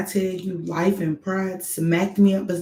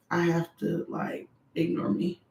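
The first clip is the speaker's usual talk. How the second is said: unvoiced, softer aside; whispered aside; 8 dB quieter than usual. Real, not acted. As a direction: whisper it to yourself. Aside, voice drops.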